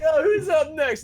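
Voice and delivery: high, slow mock announcer voice; camp counselor voice. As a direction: ham up a cheesy camp leader.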